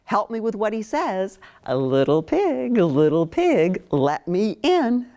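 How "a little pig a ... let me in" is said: a hint of the wolf at the door; big bad wolf. Wolf calling at the first piggy's house, lightly voiced. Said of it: "the wolf goes to the second piggy's house".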